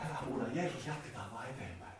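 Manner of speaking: hiljaa, matalammalla hyssytellen; hyssyttelevä opetuslapsi. Retold or imitated. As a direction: vaimenna huutaja kuiskaavan hiljaa. (opetuslapset hyssyttelevät sokeaa, hyvin hiljaa)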